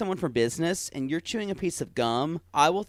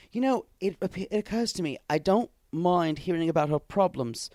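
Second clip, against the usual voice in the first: imitating Tom; 3 semitones higher than usual. Host voicing Tom deciding he must care, mock-earnest. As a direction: act out a dawning, reluctant realization. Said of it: "Tom says".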